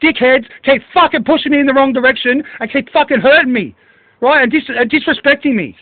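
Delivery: venting real anger at them; angry. Real, not acted. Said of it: "you get me angry like this".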